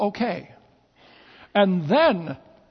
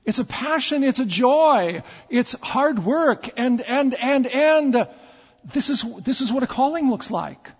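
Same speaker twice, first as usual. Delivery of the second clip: preaching; 3 semitones higher than usual. Acted. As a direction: build up the congregation with passion. Pastor preaching with force.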